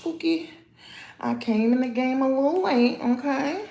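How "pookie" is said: soft, high, teasing "not too much, Pookie"; half-whispered playful plea. Real, not acted. To viewers who might tease her age, a soft high teasing plea. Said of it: "Don't come for me too".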